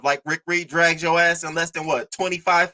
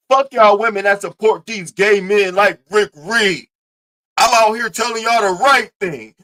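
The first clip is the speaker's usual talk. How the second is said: louder, preachy mock sermon; mock macho rant; 3 semitones higher, 4 dB louder than usual. A touch of preachy macho ranting at the women viewers. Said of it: "he goes to his channel".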